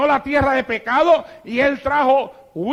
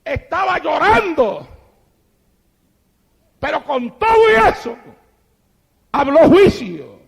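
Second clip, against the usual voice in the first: loud, higher preaching voice; preaching at full force; 6 semitones higher, 6 dB louder than usual. Acted. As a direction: drive it home from the pulpit. (predicación a plena voz)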